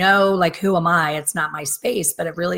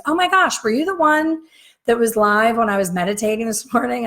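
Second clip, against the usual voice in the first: much higher, bright quoted gasp; surprised young woman; 6 semitones higher, 4 dB louder than usual. Retold or imitated. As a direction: play the girl's surprised recognition. Girl's surprised reply quoted.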